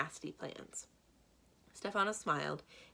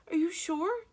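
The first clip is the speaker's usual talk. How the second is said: a little calmer; 13 semitones higher, 7 dB louder than usual. A narrator's reading. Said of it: "His voice got a little lower".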